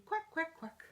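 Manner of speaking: high, short quacks; happy duckling quack. Acted. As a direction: quack lightly like a happy little duck. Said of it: "When I'm feeling happy, I say".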